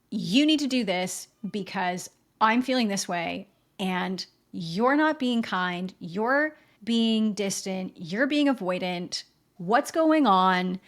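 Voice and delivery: mock accusing, pressing each point; accusing demands. A hint of wife accusing her distant partner. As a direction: nag him with complaints. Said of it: "accusations and demands".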